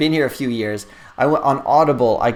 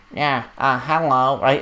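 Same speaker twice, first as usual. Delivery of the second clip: nasal, slower, put-on American accent. Retelling how a man practiced his american accent on him, in a nasal fake american accent. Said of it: "It was very nasally".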